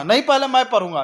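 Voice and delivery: light pretend quarrel, first retort; childish squabble. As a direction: play the other kid grabbing the paper. Two kids fight over newspaper.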